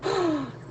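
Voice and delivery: rueful laugh. Real, not acted. Laughing at failed effort.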